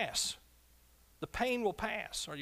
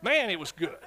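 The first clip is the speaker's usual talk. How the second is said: clueless churchgoer; 6 dB louder than usual. Retold or imitated. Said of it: "Well, what did you learn?".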